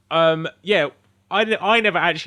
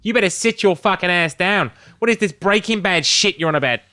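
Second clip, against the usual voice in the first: higher, louder hammed-up scolding; mock angry sergeant; 6 semitones higher, 4 dB louder than usual. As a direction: chew out the rookie like a gruff cop. Acted senior cop scolding rookie.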